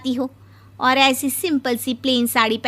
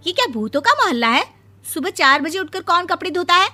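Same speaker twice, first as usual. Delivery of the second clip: shocked; 5 semitones higher, faster than usual. Acted. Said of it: "Vibha timing सुनकर हैरान हो जाती है".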